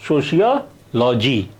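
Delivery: सोशियोलॉजी as so-shi-ya-lo-ji, the sh sound clear; model pronunciation. Shown as a demonstration. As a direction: say सोशियोलॉजी the correct English way. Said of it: "तो उच्चारण कीजिए".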